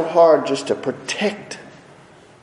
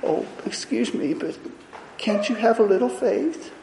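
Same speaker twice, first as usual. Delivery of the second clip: mock polite; 4 semitones higher, 5 dB quieter than usual. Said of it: "Making sure he didn't".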